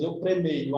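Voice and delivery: "premeio" said with an ei glide; incredulous mispronunciation. Shown as a demonstration. Teacher asking whether anyone says it, doubting "premeio". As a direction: question the form "premeio", stressing EI. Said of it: "Alguém fala".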